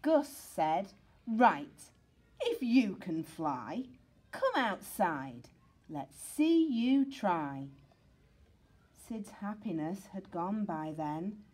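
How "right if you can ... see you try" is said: taunting challenge. Acted. Gus challenges Sid.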